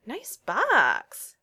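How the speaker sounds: admiring. Acted. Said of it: "Jake said admiringly".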